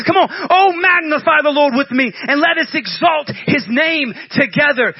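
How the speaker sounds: high, loud rallying cry to friends; rallying call. Retold or imitated. David calling his friends together, loud rallying cry. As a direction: call the crew to praise, fired up. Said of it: "he gets his homies together and says".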